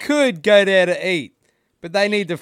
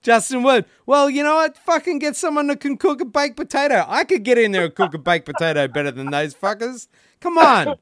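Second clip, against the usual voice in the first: angry rant; 4 semitones higher than usual. Real, not acted. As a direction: let it all out. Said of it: "This is Rant, Rant McCubbin".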